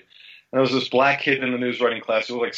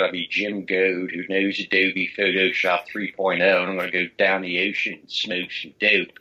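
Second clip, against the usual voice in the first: Philadelphia accent. Shown as a demonstration. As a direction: lay on a hammed-up Philadelphia accent, stretching it out. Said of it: "Worst accent in the world ... if I spoke like that".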